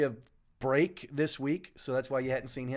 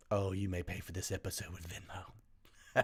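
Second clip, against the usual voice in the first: low, quiet, laughing repeat; amused low murmur; 9 semitones lower, 11 dB quieter than usual. Real, not acted. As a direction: chuckle the words out softly. Mock formal answer, laughing.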